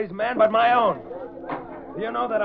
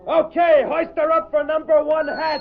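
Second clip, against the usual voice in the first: loud, higher call to hoist; shouting order; 6 semitones higher, 5 dB louder than usual. Acted. Foreman shouting to crew to hoist the load, loud. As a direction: command the crew across the wharf.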